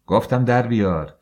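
loud, stressing در; angry command. Acted. Husband repeats his order. (فرمان تند و بلند)

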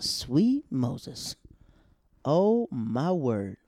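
shocked. Retold or imitated. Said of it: "I said".

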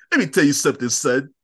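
lightly imitated New Yorker catchphrase; Donnell Rollins. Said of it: "He sounds like a New Yorker".

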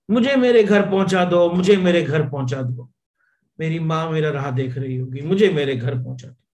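pleading call for home, voice strained; distressed cry. Acted. Drunk man cries out at a neighbour's door, desperate shout. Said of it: "इतना परेशानी में चिल्ला रहा था".

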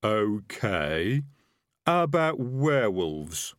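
drawn-out, methodical highwayman; working through a list. Acted. Highwayman checking coach passengers for dangers, list-reciting voice. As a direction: move slowly to the next item on the list. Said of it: "sounded as though he was working through a list".

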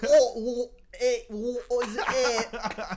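put-on high, loud nonsense English accent. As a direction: badly fake an English accent. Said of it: "That's my English accent".

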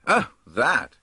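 loud contemptuous; contemptuous cry. A narrator's reading. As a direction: brush it off with scorn. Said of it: "cried Mister Dodge contemptuously".

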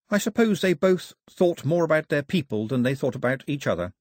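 put-on a girl reasoning it out aloud; thoughtful girl. Girl answering the old man's question, thoughtful. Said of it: "The girl considered this and said".

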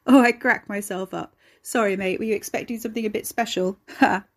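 loud, gleeful chortle through the words; chortling. A narrator's reading. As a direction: crack up at your own joke, loudly. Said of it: "Ricky chortled, wiping his eyes".

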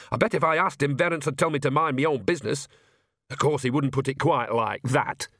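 lightly voiced chatty village granny; a hint of a plain-spoken old witch; Nanny Ogg, earthy old woman. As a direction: grumble it knowingly, pitched a little up.

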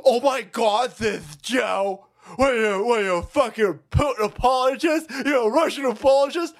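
lightly voiced indignant critic; a hint of a shrill outraged leftist; mocking a whiny critic. Host mocking a critic of Joe Rogan, mildly indignant voice. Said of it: "Shaped like asparagus goes".

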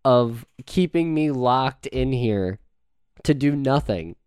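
loud, high, slow-paced frustration; exasperated pleading. Acted. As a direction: argue it out slowly and loudly. Acted quarrel about being locked in.

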